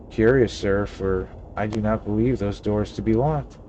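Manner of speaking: lightly voiced old-fashioned innkeeper, stately; mock Shakespearean landlord; a hint of a pompous olde-English gentleman; archaic formal speech. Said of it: "When did you start talking like that?".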